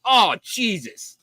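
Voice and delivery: slow, high, weary "oh Jesus"; exasperated groan. Retold or imitated. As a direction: sigh it out in disbelief. MP sees drunk marines.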